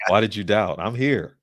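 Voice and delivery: mild, half-amused exasperated protest; mock exasperation. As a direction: imitate a fed-up teacher chiding followers. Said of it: "he'd be exasperated and say".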